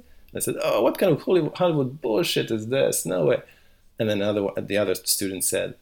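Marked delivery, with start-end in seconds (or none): 0.6-3.4 a light hint of a Russian or French accent, mock scoffing; lightly voiced old foreign film teacher, dismissive. Film teacher scoffs at student's sunset idea, lightly mock foreign accent. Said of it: "dude with a Russian accent or French accent".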